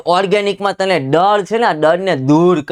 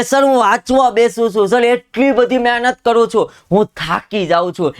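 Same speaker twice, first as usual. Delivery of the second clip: whiny student; 6 semitones higher than usual. Retold or imitated. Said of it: "વિદ્યાર્થી મિત્રોના મગજની અંદર હોય છે કે".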